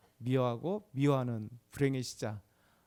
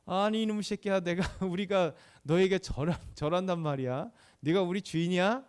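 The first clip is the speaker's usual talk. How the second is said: mock angry retort, somewhat louder; indignant brothers; 2 semitones higher, 4 dB louder than usual. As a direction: act out brothers indignantly scolding their younger brother. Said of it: "막 화를 이만큼 내는 거죠".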